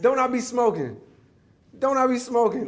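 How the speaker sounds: high, loud boastful brag; proud kid. Retold or imitated. Little Jermaine bragging to the neighborhood kids, high and proud. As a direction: show off like a six-year-old who thinks he's cool. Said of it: "Like, proud of it".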